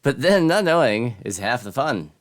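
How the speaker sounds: high, loud theatrical townsperson; wandering stranger. Acted. Voices wanderer in game.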